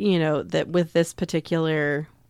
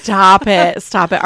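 stop it; 9 dB louder, slower than usual. Real, not acted. Friend reacts to shocking joke.

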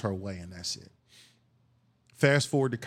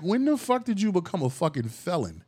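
incredulous; 7 semitones higher than usual. Retold or imitated. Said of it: "And I'm like".

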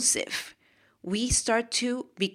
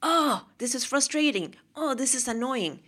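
mock exasperated outburst, pitched up; acted frustration; 4 semitones higher than usual. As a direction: let pretend annoyance burst out higher. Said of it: "it just comes out like".

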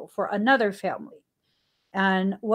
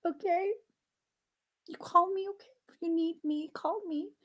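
put-on much higher, soft voice soothing a little boy; reassuring a child; 9 semitones higher, 7 dB quieter than usual. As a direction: sweetly reassure your preschooler. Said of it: "And I was like".

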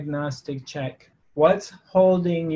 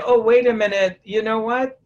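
higher, louder objection; mock protest; 6 semitones higher, 5 dB louder than usual. Someone told by death it is time to go, protesting. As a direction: stall death with a raised voice.

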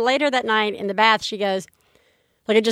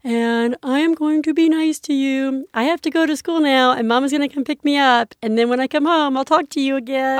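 lightly voiced higher little sister talking to the baby; a hint of a proud three-year-old; gently imitating a little girl promising to be nice; 4 semitones higher than usual. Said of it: "she was like".

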